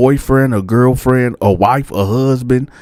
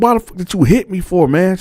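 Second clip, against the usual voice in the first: retold indignant yell; indignant shout; 9 semitones higher than usual. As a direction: demand why she hit him. Asking why she hit him.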